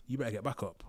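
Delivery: quiet courtroom warning; hushed warning. Retold or imitated. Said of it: "so he's whispering".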